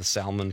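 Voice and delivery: SAL-mun for "salmon"; mispronounced salmon. Retold or imitated. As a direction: say "salmon" with a sounded L. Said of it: "people here say salmon".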